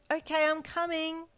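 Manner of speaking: husband calling back to his wife. Acted. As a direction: answer her from the bedroom. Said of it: "he called back".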